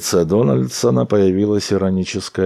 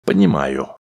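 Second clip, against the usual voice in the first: persuasive tone. A narrator's reading. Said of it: "взял Дональдсон убеждающий тон".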